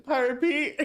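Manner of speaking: high, laughing through the words; giggling while teasing. Real, not acted. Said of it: "laughing at pirate act".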